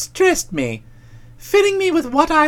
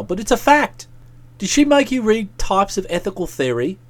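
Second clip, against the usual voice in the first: lower-pitched reflective figure; a hint of a pensive chum, talking low; lightly voiced musing friend; 5 semitones lower than usual.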